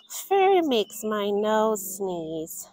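slow, fussy mom voice; lightly voiced mother. Mother refusing furry pets, slow fussy voice. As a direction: drawl out the complaint like Mom. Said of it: "said Mother".

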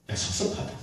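a soft unvoiced sigh of disappointment; hushed hurt whisper. Imagined Jesus telling Peter he feels let down, whispered. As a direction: whisper the hurt, barely voiced.

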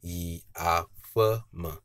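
"yi afem" slowly, low, low, high, low; low-low-high-low tones. Shown as a demonstration. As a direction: draw out "yi afem", rising only before the final drop. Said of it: "Low intonation, low intonation, high intonation".

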